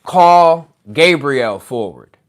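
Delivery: a measured instruction from within, slow; lightly voiced inner guide, unhurried. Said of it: "the voice inside me was like".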